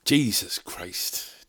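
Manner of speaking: slow, drawn-out weary groan of words; slow exasperation. Real, not acted. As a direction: let the exasperation stretch out. Exasperated at travel hassle.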